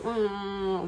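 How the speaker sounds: drawn-out whiny "mm"; mock whine. Daughter mimicking herself complaining to her mother, mock whining. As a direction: lightly imitate your own whining. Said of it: "whining or, you know, crying".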